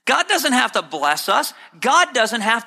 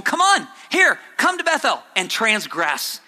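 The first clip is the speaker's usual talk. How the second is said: sarcastic prophet; 3 semitones higher than usual. Retold or imitated. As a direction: goad them with false cheer. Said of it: "it was very much a sarcastic thing".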